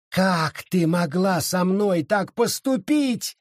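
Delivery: high, slow anguished outcry; anguished cry. Acted. Sara accusing Abita of betrayal, high anguished cry. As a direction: throw the betrayal at her. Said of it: "закричала Сара".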